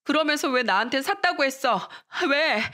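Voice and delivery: half-acted sobbing outburst; crying yell. Daughter blames mom over hand-me-down clothes, tearful yelling. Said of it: "펑펑 울면서 소리쳤습니다".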